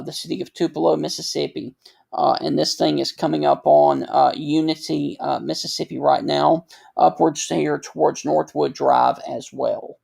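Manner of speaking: audio dropping in and out; broken-up broadcast voice; voice cutting out. Real, not acted. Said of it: "my voice going in and out".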